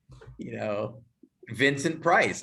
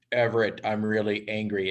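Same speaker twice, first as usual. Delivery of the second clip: reading "I'm really angry" with no anger at all; deadpan attempt at acting angry; a bad actor's flat angry line; flat fake anger; 6 semitones lower than usual. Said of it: "act angry".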